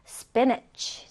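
careful model reading of "spinach"; model pronunciation. Shown as a demonstration. Teacher modelling "spinach" for learners, careful pronunciation. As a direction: say "spinach" clearly as a word to copy. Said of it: "자, 다시 발음해볼까요?".

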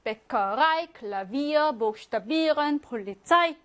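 베커라이, 클라비어 stressed on the ending; suffix stress. Shown as a demonstration. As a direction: lean on 라이, 비어, 비런, 차이 at each word's end. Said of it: "강세를 받죠".

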